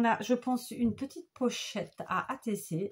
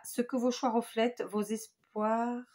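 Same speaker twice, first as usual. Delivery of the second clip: halting misread; 3 semitones higher, slower than usual. Real, not acted. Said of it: "non, que vos choix".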